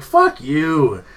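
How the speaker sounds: emphatic, drawn-out curse; retold pissed-off retort. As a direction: act out an angry comeback. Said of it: "I was pissed off".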